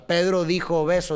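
"Pedro dijo beso" in even beats, first syllables accented; rhythmic stress. Shown as a demonstration. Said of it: "esa es la musicalidad".

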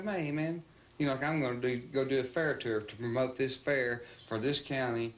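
cocky attitude. Retold or imitated. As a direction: argue like you're the one wronged. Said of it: "he had that kind of attitude".

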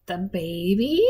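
vacant question with a rising end; blank puzzlement. A narrator's reading. Granny who forgot the baby, blankly puzzled. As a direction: ask as if you've no idea what she means. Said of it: "Granny gazed at Lena blankly".

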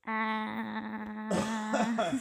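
ticklish yelp; being tickled. Real, not acted. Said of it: "you're tickling me".

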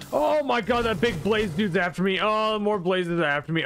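high-pitched startled outburst; startled panic. Real, not acted. Player chased by a big blaze dude, startled panic. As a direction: blurt it out in alarm, starting very high.

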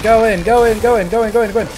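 loud, urgent repeated push; urgent calling. Real, not acted. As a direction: urge the team on, fast. Urging team during fight.

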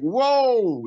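loud, high startled exclamation; startled whoa. Retold or imitated. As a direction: gasp it out as if the patient just moved. Doctors startled by leg jumping.

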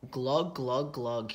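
mock gurgle as if underwater; gurgling glugs. A narrator's reading. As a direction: glug through muddy water. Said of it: "he said".

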